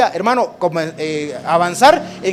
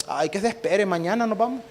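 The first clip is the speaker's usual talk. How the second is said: quejido perezoso; 5 dB quieter than usual. Pretend. Israelita perezoso no quiere moverse.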